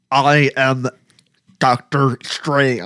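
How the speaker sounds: put-on American accent, hard over-enunciation, every sound spelled out. Imitating how the actor sounds in the role, a Doctor Strange voice, really enunciating. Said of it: "he's really enunciating".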